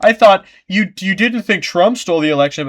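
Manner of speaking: high, loud mocking retort; imitating a smug critic. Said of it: "whenever I say that, like".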